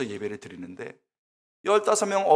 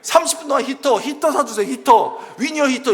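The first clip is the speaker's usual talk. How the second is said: high, loud, insistent pleading; hammed-up prayer of protest, nagging for the goods; complaining to God; 9 semitones higher, 7 dB louder than usual. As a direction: beg and badger heaven in mock desperation. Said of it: "불평은 누구에게?".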